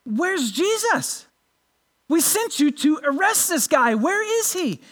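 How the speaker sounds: mildly acted, high-pitched demand; demanding questioning. Pharisees questioning the officers sent to arrest Jesus, mildly demanding. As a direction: lightly play a superior wanting answers.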